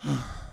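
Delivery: short soft sigh; waking sigh. A narrator's reading. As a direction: let out a breath on waking. Waking after the nightmare.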